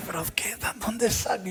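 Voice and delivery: murmullo desconcertado; pensamiento en voz baja. Retold or imitated. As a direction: decirlo para sí, sin voz casi. Inner thought, embarrassed. (pensando con vergüenza, bajito)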